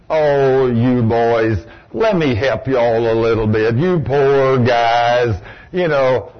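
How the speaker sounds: a hint of a meek, pitying Jesus; mock gentle Jesus. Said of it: "No, that ain't what he said".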